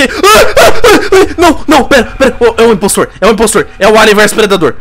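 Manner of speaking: high panicked shrieks; scream, then blurt it out. Real, not acted. Attacked by impostor, screaming. (gritos em pânico)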